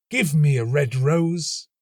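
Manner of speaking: a small bird begging the tree; nightingale crying out. A narrator's reading. Nightingale begging the rose tree, high and slow. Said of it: "she cried".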